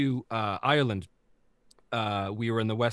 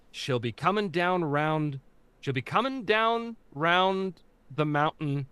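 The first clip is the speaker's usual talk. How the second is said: Newfie accent; 4 semitones higher, slower than usual. Shown as a demonstration. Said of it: "the phrase that I gave my cast to say in order to get them in the accent".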